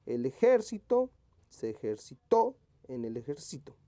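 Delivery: first ejército on JÉR, ejercitó on final TÓ; shifting word stress. Shown as a demonstration. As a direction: punch JÉR in the opening ejército, then TÓ in ejercitó. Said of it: "que esté correctamente escrita".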